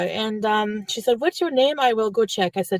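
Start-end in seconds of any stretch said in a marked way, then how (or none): 1.2-2.6 lightly imitated French Canadian volunteer; a touch of mock French Canadian; French Canadian accent. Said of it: "gonna try to imitate it".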